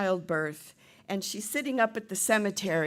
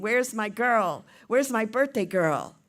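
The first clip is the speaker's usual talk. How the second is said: dad calling out; 3 semitones higher, 6 dB louder than usual. Acted. Dad outside to his birthday girl, playful calling out. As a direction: call for your daughter, louder and higher. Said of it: "hears her dad outside saying".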